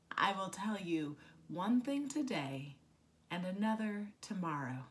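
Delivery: deliberate poetic recital, openings of phrases emphasised; poem reading. Acted. Poet speaks for small spineless creatures on Earth Day, deliberate recital. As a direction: recite it as verse, pausing after each image. Reads second poem aloud.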